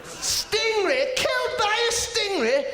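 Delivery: very high-pitched squeal of disbelief; incredulous. Acted. Comic on his hero's absurd death, squealed disbelief. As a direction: exclaim it way up high.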